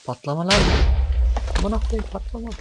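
panicked high shout. Real, not acted. Creeper about to explode.

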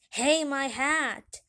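loud, stretched-out protest; mild outraged yell; indignant cry. Acted. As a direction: call out as your hat gets snatched. Mayor's hat taken by dog.

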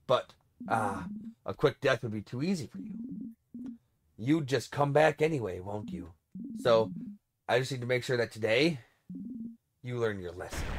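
low, soft, cold threat; a villain savoring the cruelty, hushed; quiet menacing king. Acted.

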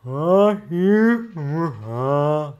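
high, loud alien vocalizing; alien Thorian speech. Acted. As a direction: make strange rising alien creature sounds. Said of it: "and the Thorian is like".

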